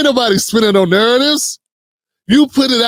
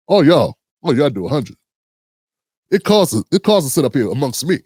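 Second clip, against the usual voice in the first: mock entertainer; 3 semitones lower than usual. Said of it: "he sound like a singer".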